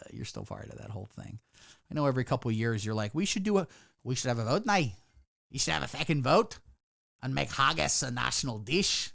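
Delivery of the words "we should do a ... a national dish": put-on a faint, half-hearted Scottish accent; lightly voiced Scot, barely attempted; bad Scottish accent. Streamer mocking Scots wanting a vote, weak Scottish accent. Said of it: "doing a Scottish accent".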